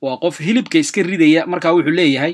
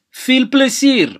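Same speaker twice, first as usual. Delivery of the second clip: high and a little slow, lifting plezier; cheerful; 8 semitones higher, 3 dB louder, slower than usual. Shown as a demonstration. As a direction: wish them a good time cheerfully. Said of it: "teacher repeats cheerful wish". (si farxad leh)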